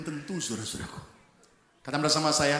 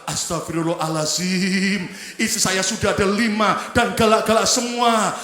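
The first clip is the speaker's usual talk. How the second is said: Arab man; 7 dB louder than usual. Acted. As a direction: exclaim in shock, lightly voiced. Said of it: "pria Arab berkata".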